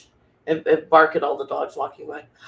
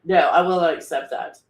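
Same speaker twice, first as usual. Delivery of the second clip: defiant movie quote; 4 dB louder than usual. Pretend. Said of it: "movie quotes of defiance".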